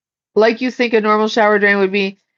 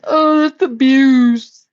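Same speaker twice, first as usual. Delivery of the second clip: mock scolding viewer; 4 semitones higher, slower than usual. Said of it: "people are like".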